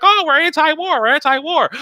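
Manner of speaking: sneering imitation of the anti-war crowd; mocking high-pitched whine. Mocking critics' voice.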